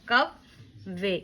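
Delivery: कव्वे with the व held double, slow; doubled w, slow. Shown as a demonstration. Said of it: "वाव को दो मरतबा पढ़ा जाएगा". (कव्वे में वाव दो बार, धीरे से)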